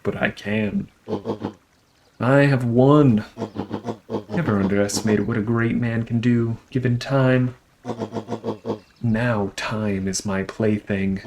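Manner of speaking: villain voice. Acted.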